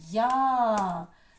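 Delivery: Я-ЗИК loud, in two stretched syllables; syllable-by-syllable demo. Shown as a demonstration. Teacher leads everyone together, Я-ЗИК in long syllables. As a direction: chant Я, then ЗИК, drawn out. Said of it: "Почули ми всі теж два склада".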